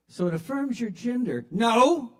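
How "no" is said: higher, louder no; loud flat denial. Acted. Old patient denying to the receptionist, a loud sharp no. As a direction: slam the no down hard.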